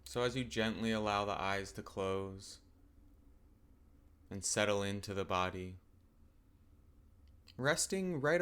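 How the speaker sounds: calm, unhurried meditation guidance with long pauses; guided meditation. Acted. Teacher settling listeners into open awareness of the body, calm guided meditation.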